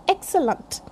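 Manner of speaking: excellent with weak schwas, EK-suh-lunt; model pronunciation. Shown as a demonstration. Teacher repeating excellent, correct EK-suh-lunt pronunciation. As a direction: reduce the later vowels of excellent. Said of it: "sound should be there".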